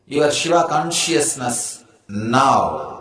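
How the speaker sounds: "now" set apart and drawn out; stress on "now". Real, not acted. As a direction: pause before a long, weighty "now". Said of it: "the emphasis on the word now".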